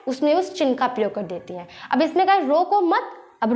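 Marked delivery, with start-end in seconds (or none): 2.4-3.1 "रोको मत" higher as one unit, then stop; pause after मत. Shown as a demonstration. Teacher shows the comma's place, stopping after "मत". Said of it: "पे रुका इसने".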